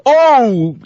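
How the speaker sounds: high-pitched mock yell; retold yell. Bus driver as the roof scrapes, high retold yell. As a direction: imitate the bus driver's startled cry. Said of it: "the bus driver yells".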